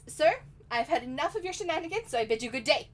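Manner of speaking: high, loud mock British accent; huffy British otter dismissing someone. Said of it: "what do you think a British otter would sound like".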